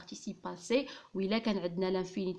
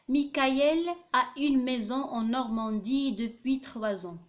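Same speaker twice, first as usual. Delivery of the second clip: slow dictation reading; 3 semitones higher, 4 dB louder, much slower than usual. Shown as a demonstration. Dictating the example sentence.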